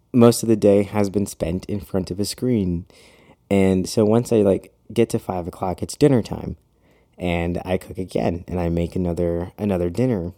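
talking out of breath; breathless, winded speech. Real, not acted. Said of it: "I'm so out of breath right now".

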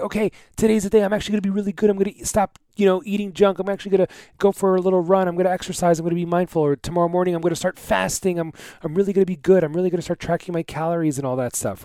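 high, quick and eager; psyched-up pep talk to self; excited resolve. Retold or imitated. Inner spark of motivation.

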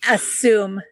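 title read backwards, word by word; saying it backwards. Shown as a demonstration. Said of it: "try to say that backwards".

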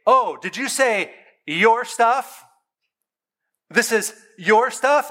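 mock the kid's claim, stretching each word; mock gangsta dad. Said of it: "gangsta with them a little bit".

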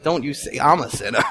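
dead serious. Retold or imitated. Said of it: "he looked at me dead serious".

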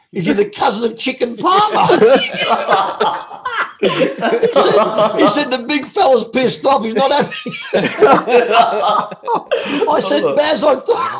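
high, loud, laughing through the retelling. Real, not acted. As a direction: keep breaking up as you tell it. Laughing while retelling the call.

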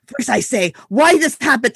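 lightly imitated Turkish accent; a son mimicking his dad's Turkish accent. Son telling mom a story like Baba, light Turkish accent. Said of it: "goes into this perfect Turkish accent".

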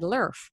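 "lurf." said as love with an R sound; a singer's lurf. Shown as a demonstration. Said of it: "a little R every time she says the word love".

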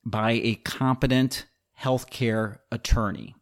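slow, deliberate weight on "competent"; stress on competent. Real, not acted. Advising board members on legal review, stressing "competent" slowly. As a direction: lean on "competent", spacing out the phrase slowly. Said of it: "I want to emphasize the word competent".

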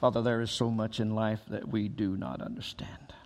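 hushed, breathy whisper; whispered prayer. Acted. Pastor opening a prayer for the grieving, whispered. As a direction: pray it barely aloud.

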